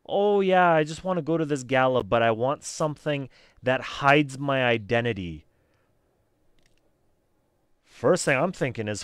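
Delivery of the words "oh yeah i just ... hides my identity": loud mock-casual parody; loud start, easing into mock nonchalance; mocking re-enactment. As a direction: mimic a fool giving himself away. Mocking the character's blatant request.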